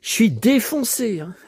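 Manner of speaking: sighing, completely wiped out; worn out. Real, not acted. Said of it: "le cow-boy est vraiment en mode H S".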